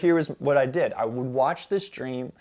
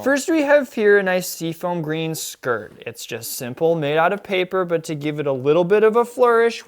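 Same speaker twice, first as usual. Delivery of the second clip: louder showy fashion presentation; gushing red carpet chatter; 4 semitones higher, 5 dB louder than usual. Pretend. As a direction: present your outfit like a runway star. Presenting outfit like celebrity.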